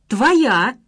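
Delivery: loud, cutting one-word jab; sharp retort. A narrator's reading. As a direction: hit him with it hard. Marina snaps back. (резкий выпад)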